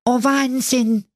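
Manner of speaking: very high, slow astonished call; amazed dwarfs. Acted. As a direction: gasp in wonder. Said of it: "riefen sie".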